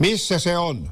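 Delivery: sudden, high-pitched calling out, exclaiming. Narrator reads Veikko calling from the car window to an old woman, exclaimed. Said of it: "Hän huudahti".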